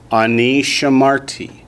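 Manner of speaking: ani shamarti, stress on the last syllable; teacher modelling Hebrew; Hebrew model word. Shown as a demonstration. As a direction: say "Ani shamarti" clearly for the class to repeat. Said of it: "Say that with me".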